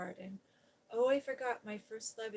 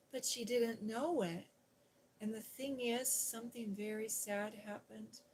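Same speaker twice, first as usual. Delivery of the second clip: put-on lively storybook recap, each line told to a small child; reading to children. Streamer recapping The Secret Garden to her viewers, storybook voice. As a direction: tell it like a bedtime story to a little one.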